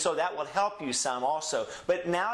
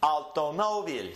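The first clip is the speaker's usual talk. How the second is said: Automóvil with MÓ raised, then falling on vil; stress on MÓ. Shown as a demonstration. Teacher modelling the accent rule, raised stressed MÓ. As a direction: lift your tone on the MÓ of automóvil. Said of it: "raise the tone of your voice on that syllable".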